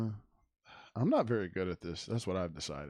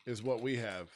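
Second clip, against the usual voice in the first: talking while chewing gum; words around a wad of gum; 2 semitones lower, 4 dB quieter than usual. Real, not acted. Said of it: "I have gum in my mouth".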